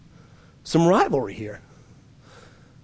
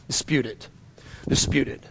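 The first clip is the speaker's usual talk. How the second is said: softer, almost whispered Dispute it; hushed urging; 5 semitones lower, 8 dB quieter than usual. Real, not acted. Pastor pressing the church with a quiet command. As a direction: drop to an intense hush. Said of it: "hushed repeated command".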